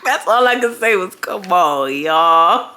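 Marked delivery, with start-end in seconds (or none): 1.2-2.7 drawn-out plea, laugh held back; about to crack up; trying not to laugh. Retold or imitated. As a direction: imitate a stretched, helpless protest. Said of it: "I'm trying not to laugh".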